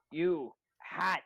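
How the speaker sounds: loud order at the hat; demanding the hat come off; stern command. Acted. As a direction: bark it at the hat.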